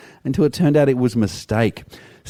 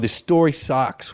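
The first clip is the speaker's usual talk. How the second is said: exasperated; 3 semitones higher, slower than usual. Real, not acted. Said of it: "Oh my God".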